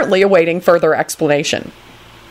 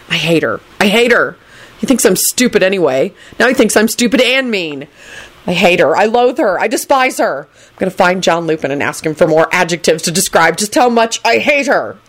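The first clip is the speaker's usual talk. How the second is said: exasperated rant with rising pitch; fuming; 2 semitones higher than usual. Acted. Neville fuming at the table over Rosie, mounting exasperation. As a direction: build each line in mild fury.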